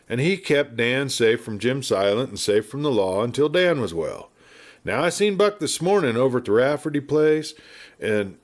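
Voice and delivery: put-on a chatty old westerner spinning yarns; garrulous old marshal. Garrulous marshal rambling at the doctor, lightly voiced.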